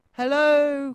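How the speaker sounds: high, loud drawn-out hello; calling out. A narrator's reading. Roo in the treetop to friends below, high calling. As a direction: sing out a greeting to someone far below. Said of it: "called Roo".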